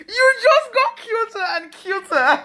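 put-on high, loud British accent breaking into laughter; drawn-out, hammed-up British accent; imitated British accent. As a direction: squeal slowly in mock British while laughing. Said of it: "Avec un accent british là".

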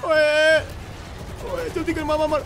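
high-pitched, hurrying shout; urgent call. Real, not acted. Gamer rushing teammate to shoot zombies, urgent high shout.

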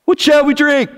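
high, loud complaining whine; mock grumbling. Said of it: "they grumbled against Moses".

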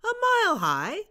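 high, loud disbelieving question; astonished. Acted. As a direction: gasp it out, amazed. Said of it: "his eyes and his mouth rounding".

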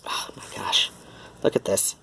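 soft amazed whisper. Real, not acted. Owner whispering in wonder over her cat. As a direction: marvel at it under your breath.

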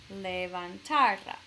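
levantará as le-van-TA-ra, slow and firm on TA; énfasis en la penúltima. Shown as a demonstration. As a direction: lean on the next-to-last syllable of levantará. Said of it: "debo poner el énfasis con mi voz en la penúltima". (levantará despacio, con el golpe de voz en TA)

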